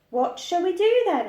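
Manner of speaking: put-on high bored little girl; child's voice. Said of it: "asked Laura".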